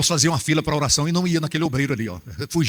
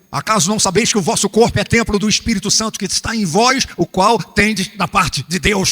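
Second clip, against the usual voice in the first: scripture reading; 6 semitones higher, 5 dB louder than usual. Acted. Scripture read.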